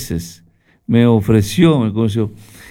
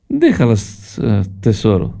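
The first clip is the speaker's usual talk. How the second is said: Doña Florinda's voice. Retold or imitated. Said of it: "le dijo la chilindrina a doña".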